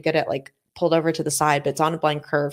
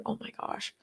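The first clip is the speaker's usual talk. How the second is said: very soft, higher retold gasp of words; hushed dismay; 5 semitones higher, 15 dB quieter than usual. Retelling reaction to the breakdown, hushed dismay. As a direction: say it under your breath, appalled.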